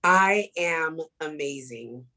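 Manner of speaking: slow, deliberate "I am amazing" for everyone to repeat; affirmation for the crowd. Shown as a demonstration. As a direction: lead the room in a self-affirmation, slowly. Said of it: "repeat after me".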